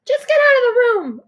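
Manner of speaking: high, loud furious yell. A narrator's reading. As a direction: scream at a brother to leave. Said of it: "I yell".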